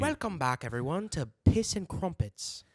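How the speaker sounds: mock English video host; stupid English accent. Host welcomes viewers to Piss and Crumpets, stupid English accent. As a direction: put on a silly English accent. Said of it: "a stupid English accent".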